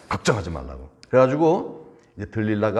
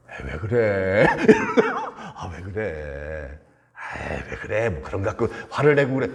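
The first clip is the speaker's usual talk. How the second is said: playful coaxing; 3 semitones lower than usual. Acted. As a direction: coax an angry lover, hammed up. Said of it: "들릴라를 달래는 거예요".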